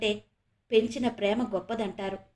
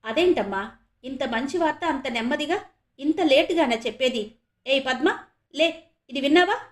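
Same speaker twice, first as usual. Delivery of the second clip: rising, louder joyful outburst; excited father, higher and louder at the end; delighted; 3 semitones higher, 4 dB louder than usual. Acted. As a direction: wake the wife with happy news. Father thrilled, wakes his wife.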